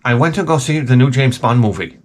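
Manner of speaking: lightly voiced impression of a coworker; coworker's way of talking. Coworker telling about the new Bond movie, lightly imitated. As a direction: imitate a guy announcing his news. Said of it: "That's how he talks".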